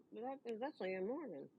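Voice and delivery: barely audible murmur of a fan; hushed recognition. Retold or imitated. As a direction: murmur it as if spotting a star. Acting out fans recognizing her voice.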